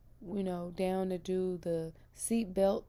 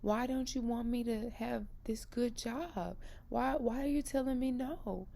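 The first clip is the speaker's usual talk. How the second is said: pleading with God; 5 semitones higher than usual. Retold or imitated. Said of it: "I just kept being like".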